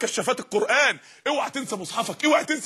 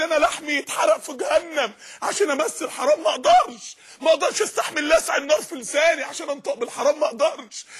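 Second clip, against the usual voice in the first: impassioned cry; 4 semitones higher than usual. Acted. Impassioned refusal climax.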